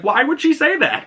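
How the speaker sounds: put-on high, worried young boy's voice; upset boy. Egg asks Dunk about the fortune in a high worried boy's voice. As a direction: ask it in a high, upset child's voice. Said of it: "And Egg's like".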